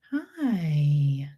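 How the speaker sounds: whispered hi to a kitten. Real, not acted. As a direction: breathe a tiny hello to the cat. Greeting the kitten softly.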